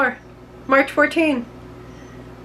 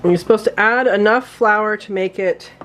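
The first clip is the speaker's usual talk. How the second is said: hiccups. Real, not acted. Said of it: "I have hiccups".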